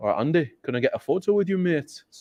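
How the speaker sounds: put-on Geordie accent. Retelling how he asked a man for a photo with him: Geordie accent. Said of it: "it was like that Geordie accent".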